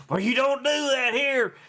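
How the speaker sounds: mildly hammed-up scolding; mock mad. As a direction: retort like an offended stranger. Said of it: "Man, she was mad".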